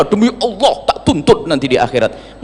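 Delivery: a lighter, laughing replay of the furious oath; tossed-off mock vow with a laugh; playful echo of the angry girl. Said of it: "Marah sedikit saja".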